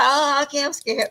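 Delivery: giggling through a mock scared reply; laughing fake fear. Ring girl laughing at the wrestler, mock scared. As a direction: pretend to be scared but laugh it off.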